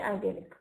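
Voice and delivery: IDYLLIC said eye-DEL-ik; US pronunciation. Shown as a demonstration. Teacher choosing her own US English form, IDYLLIC with long i. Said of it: "I use U S English".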